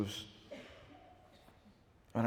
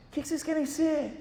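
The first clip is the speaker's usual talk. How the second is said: mock professor; 3 dB louder than usual. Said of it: "o professor perguntou assim".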